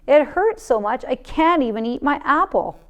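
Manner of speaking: high, loud yelp of pain; yelled. A narrator's reading. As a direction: cry out to both parents over the tooth. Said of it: "and yelled".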